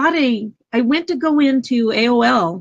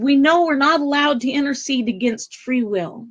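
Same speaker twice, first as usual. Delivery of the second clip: getting emotional; 5 semitones higher than usual. Real, not acted. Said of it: "I'm gonna get emotional".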